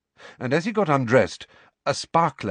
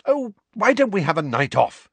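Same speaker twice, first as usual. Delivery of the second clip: bright; 10 semitones higher than usual. A narrator's reading. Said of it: "said Hermione brightly".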